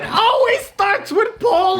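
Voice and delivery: very high shout with stress on always. Acted. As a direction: yell "It always starts with Poland!" hitting always hard. Repeated shouted joke.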